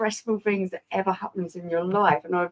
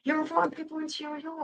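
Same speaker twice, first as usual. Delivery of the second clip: mock Jamaican accent; 7 semitones higher, 6 dB quieter than usual. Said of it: "since when were we Jamaican".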